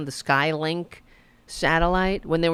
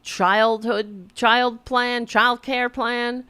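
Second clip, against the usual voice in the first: mock questioner; 4 semitones higher, slower than usual. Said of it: "asked the question".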